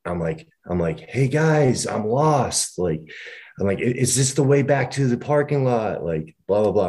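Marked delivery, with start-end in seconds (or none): 1.1-2.8 retold shout. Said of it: "And I shout out". 3.8-6.0 retold shout. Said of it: "I'm shouting these things out".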